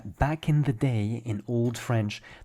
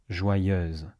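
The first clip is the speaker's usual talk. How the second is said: joyeuse with a southern French vowel; southern French joyeuse, open vowel; southern French accent; 3 semitones lower than usual. Shown as a demonstration. Teacher shows southern French joyeuse, lightly. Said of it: "we pronounce joyeuse slightly differently".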